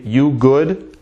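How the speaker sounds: "You good" rising at the end; question intonation. Shown as a demonstration. Teacher translating literally, "You good" as a rising question. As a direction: ask "You good" with a lifted ending.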